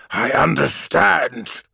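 snarl. Acted. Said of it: "snarled Malakhurst".

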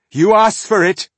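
loud, high furious yell; defiant shout. Acted. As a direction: hurl it at the monsters. Dwarf facing monsters, defiant.

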